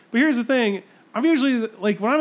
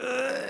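soft, higher groan of disgust; mock disgusted groan; 6 semitones higher, 6 dB quieter than usual. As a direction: groan as if picturing something gross. Acted disgust at noisy restroom neighbour.

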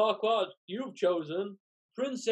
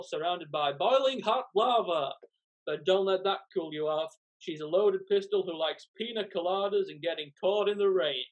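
game show host. Acted. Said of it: "acts like a game show host".

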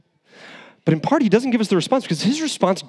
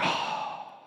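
soft, hushed, self-satisfied muttering; a lightly voiced Jonah, pleased with his shade; smug Jonah; 5 semitones lower, 7 dB quieter than usual. Jonah enjoying his shade, hushed and smug. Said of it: "It's like".

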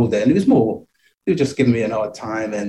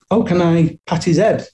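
put-on old lady voice; 6 semitones higher than usual. Old ladies stopping his mum.

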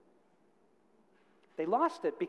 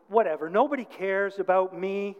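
frustrated retort; 6 dB louder than usual. Retold or imitated. Girl rejects the verse, getting frustrated.

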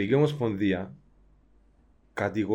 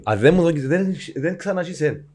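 stern official; 3 semitones higher, 7 dB louder than usual. Retold or imitated. Voices federation laying down terms.

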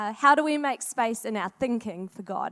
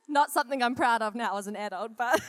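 laughing. Real, not acted. Confessing sneaking through sister's stuff.

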